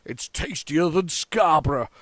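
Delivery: slow, lightly Yorkshire ad line; Yorkshire accent advert quote. Retold or imitated. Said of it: "he is from Yorkshire".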